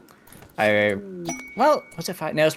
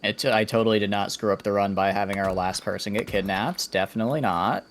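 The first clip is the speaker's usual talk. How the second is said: sarcastic. Real, not acted. Ironic denial of a botched run.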